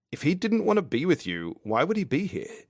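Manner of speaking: high, insistent character voice; Fitz pressing. A narrator's reading. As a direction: press the question, pitched well up. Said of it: "Fitz presses".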